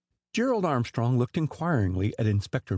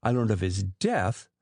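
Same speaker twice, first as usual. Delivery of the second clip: death given weight at the end; stress on death. A narrator's reading. Suspect correcting inspector, stress on death. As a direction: lean on death as the correct word. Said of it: "with emphasis on the last word".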